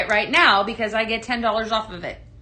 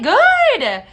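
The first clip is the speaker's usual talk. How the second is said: excited; 11 semitones higher, 8 dB louder than usual. Real, not acted. Reacting to viewer's purchase.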